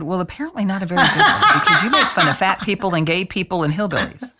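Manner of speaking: retold calm, deadpan put-down; matter-of-fact retort, no joke in the voice. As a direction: deliver the retort with a straight face. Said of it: "And I say it deadpan".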